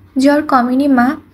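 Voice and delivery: plain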